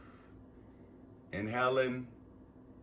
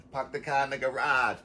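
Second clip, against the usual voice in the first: Boston accent; 2 semitones higher than usual. Shown as a demonstration. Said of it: "I sounded like I was from fucking Rhode Island".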